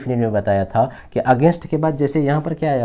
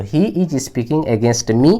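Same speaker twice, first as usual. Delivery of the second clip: very slow, each word spaced out; slow dictation; much slower than usual. Shown as a demonstration. Teacher repeating the answer for students, very slow. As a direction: lay the sentence out slowly for the class. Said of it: "तो आप समझ लेना".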